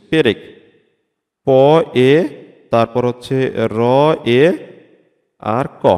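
পেরেক then প, এ, র, এ, ক each said alone with pauses; sounding out পেরেক. Shown as a demonstration. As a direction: break পেরেক into single sounds. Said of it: "extra একটা মাঝখানে স্বরধ্বনি". (ধ্বনি আলাদা করে উচ্চারণ)

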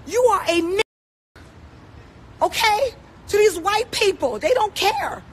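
fighting back tears while she says it; near tears. Real, not acted. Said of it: "I'm about to start crying".

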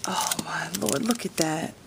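soft, breathy disbelief; real hushed wonder; awed whisper. Real, not acted. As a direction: whisper it, amazed by the gift. Awed at the stamps.

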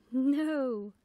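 very loud, drawn-out no; loud amused denial; amused, laughing no. A narrator's reading. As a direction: scoff merrily as a little boy. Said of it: "laughed the little boy".

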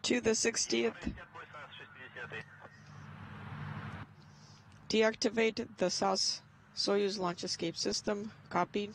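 thin, distant radio voice over the loop; crackly comms channel chatter; radio transmission. Real, not acted. Radio loop from the launch blockhouse.

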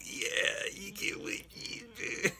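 high breathless giggle over the words; laughing through a quote. Real, not acted. Youtuber cracking up while quoting Nancy, laughing. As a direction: squeeze the words out between laughs. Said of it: "Nancy's like".

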